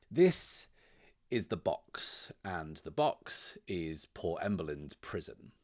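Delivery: measured game master storytelling with deliberate pauses; unhurried storyteller setting a scene; scene-setting narration. A narrator's reading. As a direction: narrate the opening scene, phrase by phrase.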